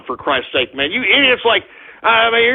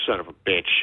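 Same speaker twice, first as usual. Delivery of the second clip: laughing curse; 10 dB quieter, much faster than usual. Real, not acted. Laughing at troll name.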